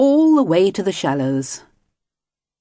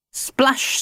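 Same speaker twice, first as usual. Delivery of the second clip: splash sound; 9 semitones higher than usual. Acted. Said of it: "splashed Mister Grinling".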